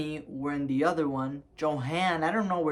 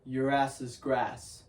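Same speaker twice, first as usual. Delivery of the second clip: slow, deadpan mock threat; straight-faced; 3 semitones lower, slower than usual. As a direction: imitate a mom's dry warning, drawn out. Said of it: "say that with a straight face".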